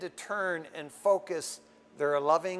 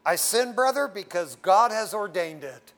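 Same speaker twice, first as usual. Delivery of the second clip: mock excuse; 6 dB louder than usual. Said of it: "it takes a theological form".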